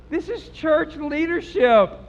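high, slow, drawn-out declaration; emphatic repeat. Real, not acted. Preacher repeats who did the cursing, slow emphatic declaration. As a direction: hammer it home slowly.

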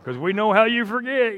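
imitating family teasing over re-gifted boots; mock sarcastic. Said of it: "and I'm like".

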